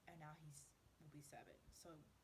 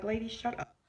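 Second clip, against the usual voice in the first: checking her; 6 semitones higher than usual. Retold or imitated. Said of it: "I had to check her".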